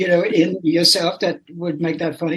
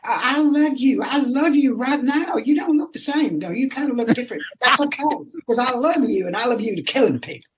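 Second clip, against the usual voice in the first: put-on Southern kid; 6 semitones higher than usual. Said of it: "He was a Southern kid on holiday".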